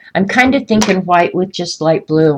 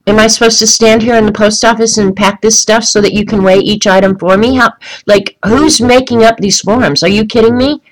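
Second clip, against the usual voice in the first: raised, higher, heated retelling of the complaint; retold exasperated rant; 4 semitones higher, 4 dB louder than usual. Retelling how she argued with the postal clerk, exasperated. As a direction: replay the fed-up outburst, a bit louder and higher. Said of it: "I said".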